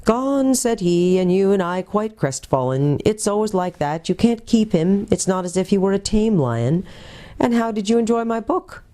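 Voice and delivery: rueful, then chatty wizard; old magician. Acted. The magician sighs to Lucy that Aslan is gone, lightly voiced old man.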